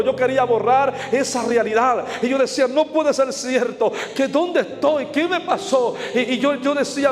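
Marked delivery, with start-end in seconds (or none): 2.7-5.9 higher, drawn-out disbelief in retelling; retold desperation. Man recalling being lost in condemnation, retold desperation. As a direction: retell bewildered despair, pitched up. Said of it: "empiezo a desesperarme".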